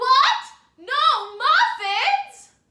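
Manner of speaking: shrill, very loud, high, full-volume calling shout. Leading a listener in practicing the shouting or calling voice: shouting or calling voice. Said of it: "Can you practice that with me?".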